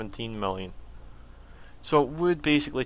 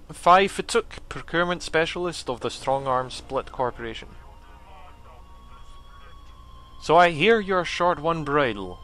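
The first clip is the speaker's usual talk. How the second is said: alien voice; 3 semitones higher than usual. Acted. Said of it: "trying to give him a voice".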